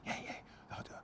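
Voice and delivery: hushed unvoiced whisper. Nervous bloke whispering so his mum won't hear. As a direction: keep it down for mum.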